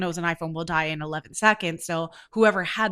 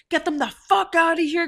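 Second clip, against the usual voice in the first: high, loud mock bouncer yell; acting out an aggressive throw-them-out command; bouncer's angry order; 9 semitones higher, 5 dB louder than usual. Bouncers rush in to throw the women out, loud order.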